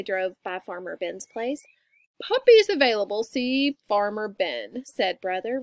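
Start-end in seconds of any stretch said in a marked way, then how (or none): 2.2-4.8 loud start, slowing on the name; reading a sign aloud. A narrator's reading. Brother reading the sign aloud, announcing it. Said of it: "reading the sign aloud".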